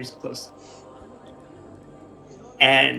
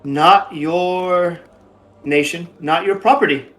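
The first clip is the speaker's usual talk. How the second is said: louder, higher, scolding the stranger; defiant Boots; 5 semitones higher, 7 dB louder than usual. Acted. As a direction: put her firmly in her place, mate.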